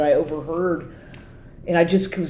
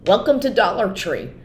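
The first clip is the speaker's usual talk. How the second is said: funny announcer voice; 3 semitones higher than usual. Retold or imitated. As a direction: parody the odd voiceover greeting. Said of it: "the voice is really funny of the man who has this announcement".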